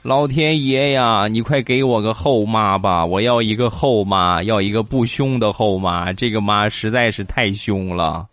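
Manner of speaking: mock wail to heaven. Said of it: "冲着天就大喊".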